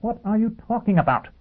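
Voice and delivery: high-pitched incredulous question; strained, baffled outburst; exasperated disbelief. Acted. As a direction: ask it in dismay, pitched right up. Dagenham baffled, arguing with Foyle.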